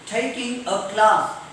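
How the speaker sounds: TAKING with aspirated k, CLASS as "klaas"; slow, open "ah" in CLASS; British class. Shown as a demonstration. Teacher showing accented k, CLASS with broad "ah". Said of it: "curve becomes kha".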